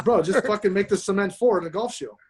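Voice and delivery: retold line with a laugh in it; chuckling while quoting a friend; laughing quote. Retelling MJ's offhand reply.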